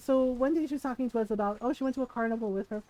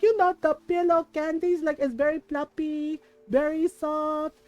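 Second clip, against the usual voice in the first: 1 irritated mom explaining; 3 semitones higher than usual. Retold or imitated. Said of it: "and my mom got mad".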